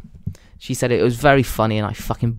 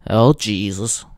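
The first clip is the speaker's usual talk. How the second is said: usual speaking voice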